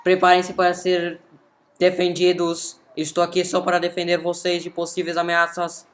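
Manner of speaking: announcing robot protector; robot guard voice. Acted. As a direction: bold robot declaration. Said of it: "Keep adding some more Portuguese stuff".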